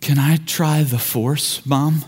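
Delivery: put-on slow, lightly sheepish child; imitating a kid's hesitant plea; sheepish request. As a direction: ask timidly, slow and a little low. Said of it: "looks over sheepishly at Christy and says".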